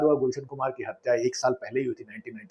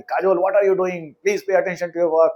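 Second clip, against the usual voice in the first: slow, raised scolding call, hammed-up; mock director yell; 5 semitones higher, 4 dB louder, much slower than usual. Director scolding Kajol on set, slow mock shout. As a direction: drag out each word like a director playing at being strict. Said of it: "जब पहली बार काजोल पे चिल्लाया".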